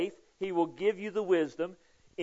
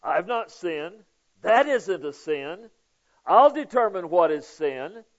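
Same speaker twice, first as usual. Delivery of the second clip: defiant self-justifying; 3 semitones higher, 7 dB louder, slower than usual. Acted. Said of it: "what does that sound like?".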